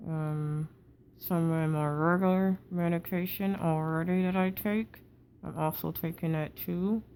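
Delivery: talking through a wired-shut jaw. Real, not acted. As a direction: speak with teeth clamped together after jaw surgery. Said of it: "breathing is difficult with your mouth contained like this".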